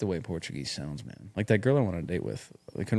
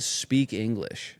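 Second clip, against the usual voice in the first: Alabama redneck; much slower than usual. Retold or imitated. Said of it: "he said".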